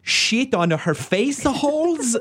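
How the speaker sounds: high, slow hammed-up Italian accent; mock Italian accent. Mocking a sweet Italian director, hammed-up Italian accent. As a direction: play the sweet Italian director saying something crude, Italian accent. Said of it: "take his adorable accent".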